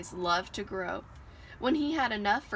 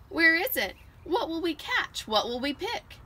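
Little Bear bouncing with eager questions, higher; eager child's questions; 8 semitones higher, 3 dB louder than usual. Acted. Little cub eagerly questions Mommy, excited and high. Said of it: "he asked".

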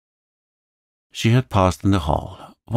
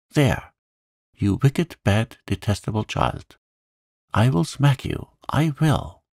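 higher-pitched, exasperated scolding; threatening scolding; 5 semitones higher than usual. A narrator's reading. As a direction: scold helplessly and excitedly. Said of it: "then in quite another tone".

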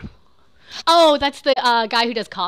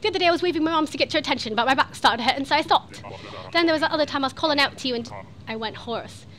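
put-on British character reading; British accent. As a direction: read it out in a mock British voice. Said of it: "He is British".

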